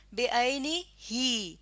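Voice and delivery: بے عینی ہی slowly, "be-aini... hee"; zer under noon. Shown as a demonstration. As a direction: say بے عینی ہی with a separate long "hee". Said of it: "میں زیر لگا دیتی ہوں". (بے عینی ہی آہستہ، نون کے نیچے زیر)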